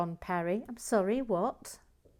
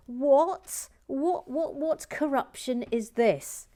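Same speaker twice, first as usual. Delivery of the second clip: high, loud, hammed-up disbelief; playfully scandalised, going up high; mock outrage; 6 semitones higher, 6 dB louder, slower than usual.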